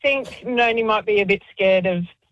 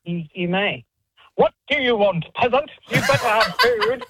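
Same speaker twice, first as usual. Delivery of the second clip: haughty cat. Acted. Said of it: "chat to Theo?".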